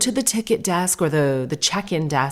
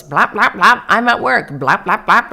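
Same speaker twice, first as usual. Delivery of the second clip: louder, playful pretend-play voice; lightly voiced child playing at work; a touch of a toddler pretending at a toy keypad; imitating a little girl; 3 semitones higher, 5 dB louder than usual. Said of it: "And she goes".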